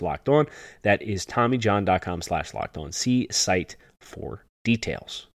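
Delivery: upbeat sponsor read; holiday sale ad. Acted. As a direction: read it like a radio ad. Host reads sponsor ad.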